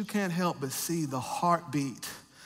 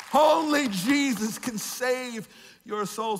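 full-force preaching; 7 semitones higher, slower than usual. Acted. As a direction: preach it hard, pleading, pulling the words out. Preaching climax.

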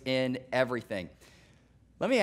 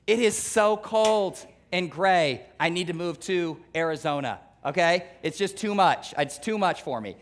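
slow, drawn-out moaning about the cold; mock whiny complainer. Nebraskan griping about winter, mock whining. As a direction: whine like someone sick of winter. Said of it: "Guess what I hear all winter?".

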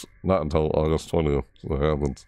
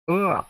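short higher-pitched croak; cracking-voice croak; 12 semitones higher than usual. Shown as a demonstration. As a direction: demonstrate your voice cracking. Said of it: "cracking or something".

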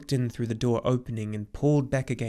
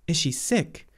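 put-on higher, mildly astonished boy; amazed question; 5 semitones higher, 4 dB louder than usual. A narrator's reading. Boy learning the empress may be ill, amazed. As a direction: ask it in sudden surprise. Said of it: "Atreyu asked in amazement".

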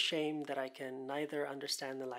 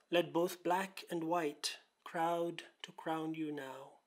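measured recital of a love poem, slightly raised pitch; poetry reading; 3 semitones higher than usual. Acted. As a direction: recite verse in deliberate phrases, pausing between images. Reads the poem aloud.

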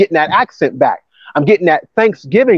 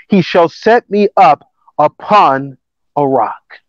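scripture reading. Acted. Preacher reading the psalm to the congregation, measured scripture reading. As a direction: read the verse out deliberately.

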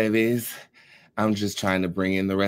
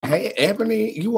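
excited greeting; 10 semitones higher than usual. Real, not acted. Greeting first viewer on live.

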